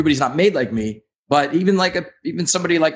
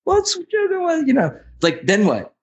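tempting inner voice. Retold or imitated. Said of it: "this voice goes".

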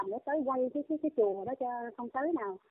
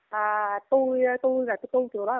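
imitating the nun; 5 dB louder than usual. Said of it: "nói vậy á, giới thiệu vậy đó".

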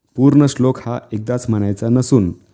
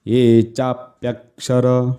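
चा pressed before the conjunct in चाप्यक्षर; stress on चा; much slower than usual. Shown as a demonstration. Teacher explains conjunct letters, pressing चा in चाप्यक्षर. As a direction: lean on चा in चाप्यक्षर, slow chant. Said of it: "चा, याच्यावर थोडा दाब द्यायचा आहे".

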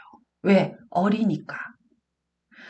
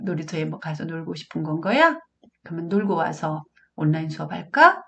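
gentle, without anger; 2 semitones lower than usual. Shown as a demonstration. Mother negotiates online class with child, gentle and calm. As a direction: coax gently, leaving room for the child to answer. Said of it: "화 안 내고 의사 전달할 수 있거든요".

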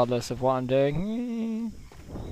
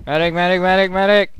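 urgent louder call for help; calling for medic; 3 semitones higher, 4 dB louder, faster than usual. Real, not acted. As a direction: shout for the medic across the field.

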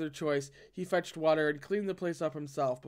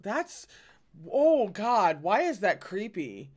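spooked; 5 semitones higher, 6 dB louder, slower than usual. Real, not acted. Reader breaks off, spooked.

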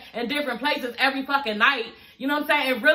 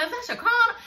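much higher, laughing, near-crying fan squeal; over-the-top groupie squeal; 10 semitones higher, faster than usual. Retold or imitated. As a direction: squeal like a fan who can't believe it. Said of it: "like, he a groupie or something".

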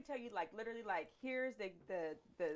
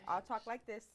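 talking louder. Shown as a demonstration. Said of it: "do my best, guys, to talk louder".

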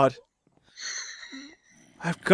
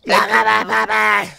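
mock sexy voice; 5 semitones higher, 4 dB louder than usual. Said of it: "That's my sexy voice".

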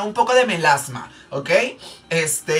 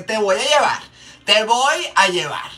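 mock threatening mom voice; 4 semitones higher than usual. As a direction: stretch out the threat like a scary mom. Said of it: "esa voz de que".

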